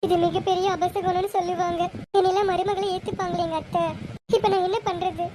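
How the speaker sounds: tearful. Acted. Bride alone laments her ruined engagement, tearful. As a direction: lament as if close to crying. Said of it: "ஏன்க்கா அழுகுற".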